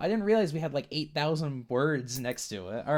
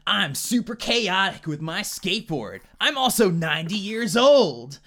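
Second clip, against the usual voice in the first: nineties dude; 4 semitones higher, 4 dB louder than usual. Acted. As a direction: ham up a rad nineties skater. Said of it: "My name is Johnny nineties".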